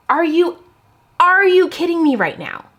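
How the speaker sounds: high, loud outburst of disbelief; real stunned protest; shocked disbelief. Real, not acted. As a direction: react as if the card betrayed you. Card flip goes wrong.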